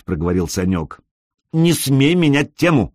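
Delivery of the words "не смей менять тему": indignant. A narrator's reading. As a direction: cut him off in outrage. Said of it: "возмутилась Алёна".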